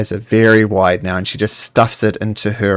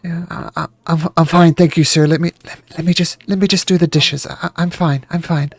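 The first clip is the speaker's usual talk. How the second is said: nervous servant; 5 semitones higher than usual. Acted.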